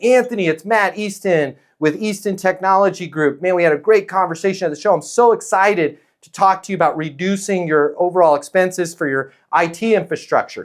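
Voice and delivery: gushing salesman pitch, pushing hard; eager sales pitch. Shown as a demonstration. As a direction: sell it with over-eager excitement. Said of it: "Sales pitch".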